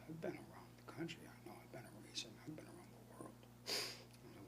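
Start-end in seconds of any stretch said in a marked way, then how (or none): 0.1-3.3 mock secretive whisper, retold; imitating a whispering braggart; hushed boast. Retold guy boasting quietly.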